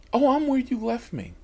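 a hint of the calm passenger; mild passenger voice. Passenger answering on the phone.

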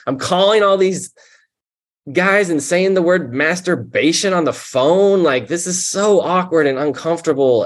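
high, fast exasperated complaining to God; exasperated rant. Retold or imitated. Recovering addict venting at God, high exasperated complaint. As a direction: throw up your hands and vent at God.

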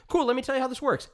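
high, quick, chummy small-town deputy; a light hammed-up folksy deputy; mock friendly sheriff, fast and high; Barney Fife. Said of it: "he changes into Barney Fife".

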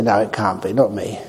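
self-doubting protest. Retold or imitated. Meditator refusing praise for a nimitta, quietly self-doubting. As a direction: say it like you don't believe you're worthy. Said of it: "And they say".

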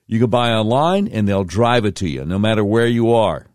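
brisk, upbeat host-read commercial; radio host slides into a sponsor spot. Acted. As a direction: sell the dealership with a friendly push.

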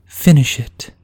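high, loud ringing command; a fallen queen urging him on, loud and high; commanding call. Acted. Fallen queen in his mind, ringing high command.

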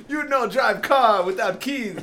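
hammed-up island accent, Caribbean; mock Caribbean accent. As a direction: stretch it out in a joking Caribbean lilt.

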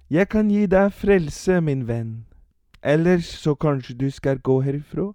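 lightly voiced preacher; preaching old man. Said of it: "sa den enøyde mannen".

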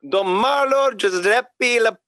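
slow, drawn-out mock French accent. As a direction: read the Italian name as if French. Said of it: "read it in a French accent".

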